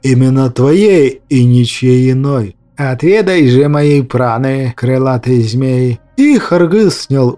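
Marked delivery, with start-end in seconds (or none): 0.0-2.5 slow serpent voice. Acted. Serpent demands life force. 2.8-6.0 solemn offering. Acted. Shaman offers prana, ceremonially.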